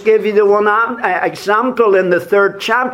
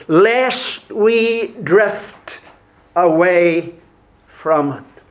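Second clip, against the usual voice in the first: slow emphatic repeat; slower than usual. Shown as a demonstration. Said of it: "repeats verse slowly for weight".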